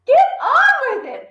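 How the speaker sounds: high, loud urgent push; impatient hiss. Acted. Mother pushing her frozen husband, impatient. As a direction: snap at him to move. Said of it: "hissed the mother".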